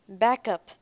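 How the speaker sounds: terse. Acted. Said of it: "Derek said tersely".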